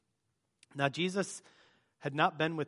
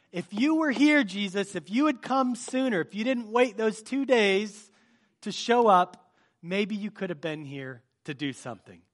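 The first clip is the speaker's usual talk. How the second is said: higher, exasperated pleading; frustrated; 3 semitones higher than usual. Retold or imitated. Martha confronting Jesus for coming too late, frustrated and higher. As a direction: let the hurt show, pressing him why he was late. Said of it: "she's kind of frustrated".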